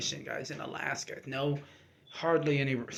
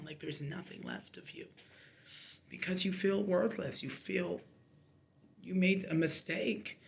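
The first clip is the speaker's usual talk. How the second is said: near tears; 3 semitones higher than usual. Real, not acted. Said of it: "I'm finally gonna cry now".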